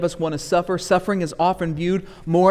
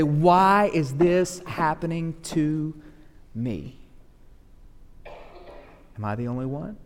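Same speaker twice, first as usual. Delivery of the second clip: indignant prayer; slower than usual. Retold or imitated. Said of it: "looking all kinds of indignant before God and say".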